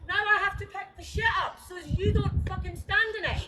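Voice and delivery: shouting out in fury; angry shout. Real, not acted. Neighbour shouts at the filming woman about the dog, furious. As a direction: yell it across the garden, furious.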